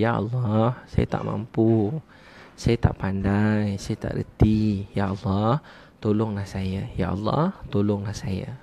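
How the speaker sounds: slow, drawn-out pleading from the heart; heartfelt humble prayer. Shown as a demonstration. Teacher showing how to beg Allah for help, humbly. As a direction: pray slowly, softening as you ask for help. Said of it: "belajar cakap dengan hati".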